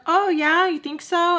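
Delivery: put-on high voice for a reply; high-pitched mimicry. Sam answers Joe's compliment, high mimicked voice. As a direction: imitate her, pitched well up.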